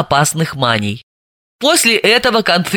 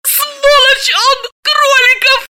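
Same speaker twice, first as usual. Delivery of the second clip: high, slow, venomous woman's voice; bitter girlfriend's curse, much higher; spiteful through teeth; 3 dB louder, slower than usual. A narrator's reading. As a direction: spit the name with hatred. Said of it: "зло процедила сквозь зубы".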